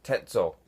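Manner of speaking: "Tetzo" as two syllables, tet-zo; carefully voiced alien word "Tetzo"; pronunciation demo. Shown as a demonstration. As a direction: show how "Tetzo" is pronounced, tet-zo. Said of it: "to pronounce sounds like".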